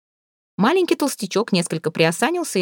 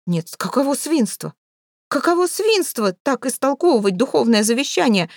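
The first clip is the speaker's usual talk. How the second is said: indignant cry; 6 semitones higher than usual. A narrator's reading. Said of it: "кричали родственники".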